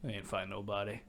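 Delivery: quoting him softly; very quiet. Retold or imitated. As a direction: imitate a man saying it under his breath, softly. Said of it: "he very quietly went".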